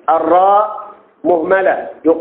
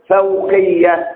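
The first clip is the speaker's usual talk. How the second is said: drawn-out answer; much slower than usual. Shown as a demonstration. Teacher spelling it out slowly for students. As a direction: stretch each sound of فوقية slowly. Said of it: "لابد أن تقول مثناه إيه؟".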